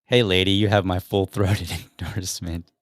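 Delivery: a mock gushing endorsement, laughing through the last word; mocking quote. Mocking the ad's pitch to women, a touch of laughter. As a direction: parody the ad's line with a chuckle. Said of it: "I don't know that I would ever say".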